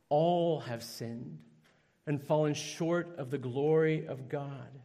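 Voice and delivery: slow, weighty quotation; solemn scripture reading. Acted. Preacher reading Romans to the church, slow and solemn. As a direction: lay each word down gravely.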